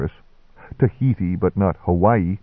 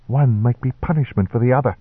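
sharp; 4 semitones higher, faster than usual. Acted. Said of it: "he said sharply".

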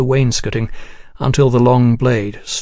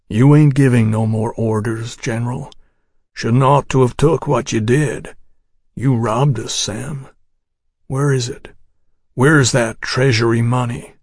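grim Texas ranger. Acted. Ranger accuses Houston.

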